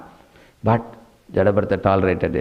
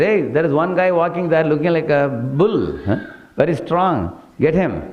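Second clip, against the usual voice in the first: raised, eager call to his bearers; king calling out; 6 semitones higher than usual. Retold or imitated. King calls to his servants about a strong stranger, eagerly raised voice. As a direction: sound like a king spotting a strong man.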